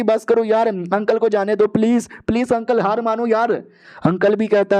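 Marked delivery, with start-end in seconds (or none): 0.0-3.5 high-pitched acted begging; pleading. Girl begging uncle to give up the fight, pleading. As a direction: plead high, dragging out the please. Girl begs them to stop.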